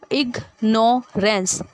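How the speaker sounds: "इग्नोरेंस" slowly as इग, नो, रेंस; divided syllables. Shown as a demonstration. Teacher showing syllable division, "इग्नोरेंस" in three separate beats. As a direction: pause after each syllable of "इग्नोरेंस". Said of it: "एक एक में divide होता गया".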